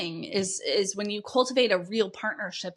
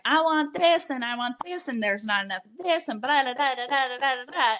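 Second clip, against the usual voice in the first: mock whine, pitched up, rattling off wants; whiny complaining; 4 semitones higher than usual. Host mocks the complaining partner with a whine. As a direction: imitate a partner griping endlessly. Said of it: "and you're bitching".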